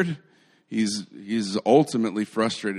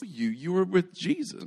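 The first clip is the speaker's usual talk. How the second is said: higher, accusing schoolgirl voice; mock a girl's pointed accusation; light impression of a pestering girl; lightly voiced insistent girl; 8 semitones higher than usual.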